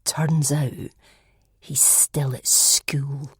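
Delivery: hushed whisper; slow secretive whisper. A narrator's reading. Shona sharing scandalous news with friends in a whisper. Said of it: "she said in a hushed tone".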